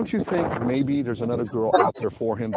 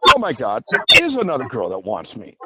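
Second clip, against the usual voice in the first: mock shock; 5 dB louder than usual. Ex-wife shocked at discovery.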